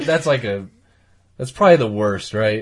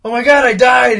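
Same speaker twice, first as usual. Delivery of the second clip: ghost realizing he's dead; 7 semitones higher, 4 dB louder than usual. Retold or imitated. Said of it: "he's just like".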